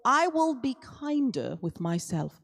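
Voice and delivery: song title in an English accent; accidental English accent on the title. Real, not acted. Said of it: "I don't know where the English accent came from".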